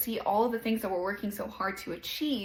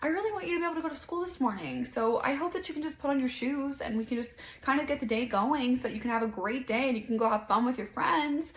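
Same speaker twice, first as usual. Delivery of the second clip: super sweet; 4 semitones higher than usual. Retold or imitated. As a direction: coax a toddler gently. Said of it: "super sweet and I'm like".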